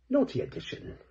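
cheeky high subtitle. Acted. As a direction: say it with a naughty wink.

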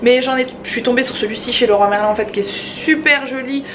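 slushy lisp on s sounds. Real, not acted. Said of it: "je zozote".

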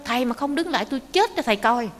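fast, high-pitched mock yell; angry yell. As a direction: act out an exasperated threat while chasing. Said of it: "ông tức quá, ông hét lên". (hét lên tức tối)

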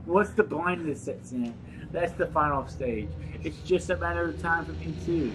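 mock-mournful Russian accent. Doomed note writer to Papa, mock Russian accent. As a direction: lament in a put-on Russian accent.

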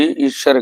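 ਈਸ਼ਰ said with a clear sh, ee-shar; clear sh sound. Shown as a demonstration. Teacher showing the sangat to say ਈਸ਼ਰ with a clear sh. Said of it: "ਸ਼ੱਸ਼ੇ ਦੀ ਆਵਾਜ਼ ਦੇ ਨਾਲ ਬੋਲਣਾ".

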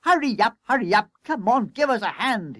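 high, urgent hurrying; rally the crews frantically; calling out. A narrator's reading. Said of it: "he called to the other crews".

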